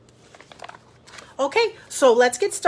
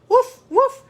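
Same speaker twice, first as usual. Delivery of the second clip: high, loud little woofs; dog bark; 12 semitones higher, 6 dB louder than usual. A narrator's reading. Titus the farm dog barking at the bus, high woofs. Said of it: "barked Titus".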